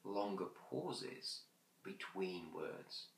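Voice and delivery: slow, fading, with long pauses; dragged-out words. Shown as a demonstration. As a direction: stretch every word and let it sink. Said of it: "drag out the words and leave longer pauses".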